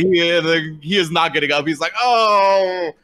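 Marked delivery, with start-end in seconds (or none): 2.0-2.9 higher, drawn-out groan of agony; mock pain. Beaten orc down on the ground, mock pain. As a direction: play hurt with a long cry. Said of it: "writhing on pain on the ground".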